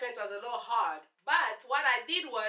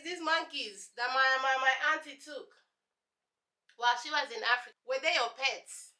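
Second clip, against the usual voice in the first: high, airy voice of an ignorant classmate; mocking clueless classmate; 4 semitones higher than usual. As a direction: play the dumb curious classmate gushing. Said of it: "they hear the accent".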